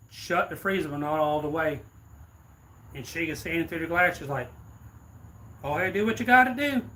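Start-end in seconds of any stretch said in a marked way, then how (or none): 5.6-6.8 high, loud defiant challenge; defiant dare. Retold or imitated. Old woman to robber, a loud high dare. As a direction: dare him to try it.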